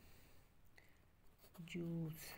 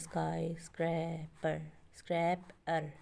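slow, syllable by syllable, with स्क्रैपर repeated louder on its own; syllables spelled out; 4 dB louder, slower than usual. Shown as a demonstration. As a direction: break स्काई स्क्रैपर into its syllables and punch स्क्रैपर. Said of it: "स्काई स्क्रैपर में कितने syllabus". (शब्दांश अलग-अलग, स्क्रैपर पर ज़ोर)

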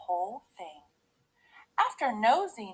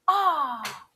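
raised, relieved ah; contented sigh; 5 semitones higher, 4 dB louder than usual. A narrator's reading. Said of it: "she sighed".

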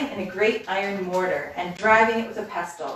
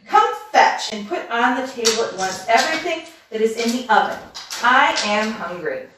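put-on louder, demanding old witch; 2 semitones higher, 4 dB louder than usual. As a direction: order her about like a hungry witch. Witch orders food.

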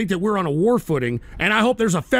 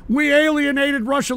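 mocking echo, pitched higher and rising; incredulous echo; 5 semitones higher than usual. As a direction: throw the claim back in disbelief. Echoing the caller's claim.

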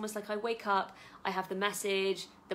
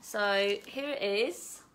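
normal talking voice

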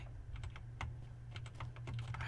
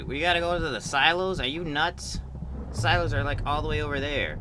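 louder, higher disbelief; incredulous outburst; 6 semitones higher, 5 dB louder than usual. Real, not acted. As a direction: protest loudly in disbelief. Outraged at game objective.

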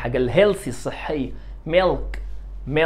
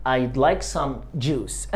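very slow, softer; very slow model answer; 2 semitones lower, 4 dB quieter, much slower than usual. Shown as a demonstration. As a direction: lay out each word gently. Teacher models answer very slowly. (إجابة بطيئة جدًا)

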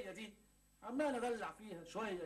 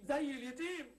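stronger self-pity; 6 semitones higher, slower than usual. Acted. Self-pitying complaint repeated.

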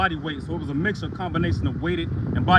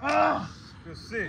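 shout; 10 semitones higher, 4 dB quieter, slower than usual. Real, not acted. Cheering lifter.

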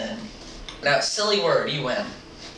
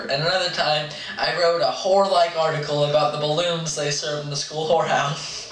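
reading aloud. Acted. Reading the story.

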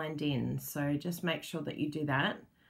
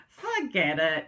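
dismissive; 4 dB louder, slower than usual. Retold or imitated. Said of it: "the procrastinator in me says".

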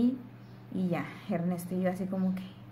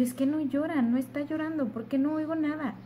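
higher, louder, mildly distressed questioning; retold anxious plea; 8 semitones higher, 4 dB louder than usual. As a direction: re-enact an urgent worried plea, pitch raised. Retells her anxious plea to the doctor.

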